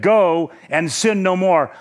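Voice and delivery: slow, deliberate words of release; mildly forgiving. Acted. Preacher voicing Jesus freeing the woman from sin, forgiving. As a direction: forgive gently, drawing the words out. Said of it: "He was forgiving her".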